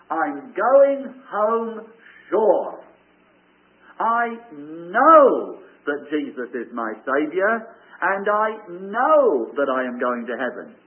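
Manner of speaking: slow, loud, certain declaration; confident. Pretend. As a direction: state it with firm assurance. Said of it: "go home tonight saying".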